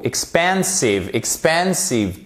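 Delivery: EXPANSIVE starting with short i, stressed middle; slow model EXPANSIVE, opening like "ik". Shown as a demonstration. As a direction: say EXPANSIVE slowly, light short i first. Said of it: "se prononce comme un I court".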